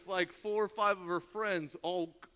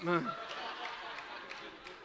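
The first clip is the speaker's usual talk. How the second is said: laugh; 6 dB quieter than usual. Real, not acted. Laughs after his own quip.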